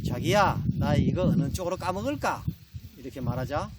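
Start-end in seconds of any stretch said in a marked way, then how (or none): 0.1-2.4 lightly voiced, cutesy Seoul bride. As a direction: ask your husband with a hint of playful aegyo. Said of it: "서울 신부가 바나나를 먹으려다가". (살짝 애교 섞인 서울 신부)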